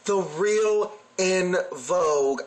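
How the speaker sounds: slow, drawn-out quote; savored jab. Retold or imitated. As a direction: stretch each word to relish the dig. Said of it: "the life that she gave me when she said".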